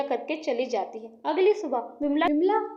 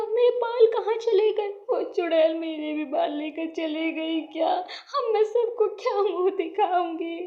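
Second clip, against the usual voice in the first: raised, acted wailing; tearful lament; 3 semitones higher than usual. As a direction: lament your loss tearfully. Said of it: "Vimla रोते रोते".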